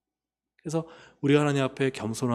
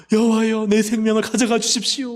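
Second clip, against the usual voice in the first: higher, louder despairing cry to God; Elijah pleading; 8 semitones higher, 5 dB louder than usual. Retold or imitated. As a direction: beg God to take his life. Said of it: "로뎀 나무 아래서 뭐라 그래요".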